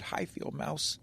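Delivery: barely dares to speak to her; scared. A narrator's reading. Shy beaver greets the mouse he loves, in a scared whisper. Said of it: "He was so scared".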